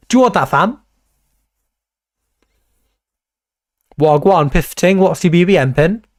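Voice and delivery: roadman slang, cocky; badly faked London roadman voice; fake tough gangster. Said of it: "That was shit".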